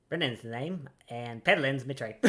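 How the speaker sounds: a lightly voiced gruff old deckhand, chatty; grizzled sailor voice. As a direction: read it as a weathered old seaman, barely shifted. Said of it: "I should talk like Brennan".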